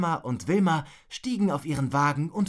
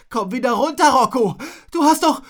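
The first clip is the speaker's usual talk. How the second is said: loud, high-pitched call; urgent shouting up; 8 semitones higher, 9 dB louder than usual. Acted. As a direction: shout up to someone on a wall. Friend calls up to climber. (laut und hoch hinaufrufen)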